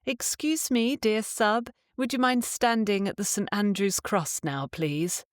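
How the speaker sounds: timid, pleading polite ask; overly polite request. Shown as a demonstration. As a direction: ask sweetly, as if asking a favour. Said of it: "you don't say".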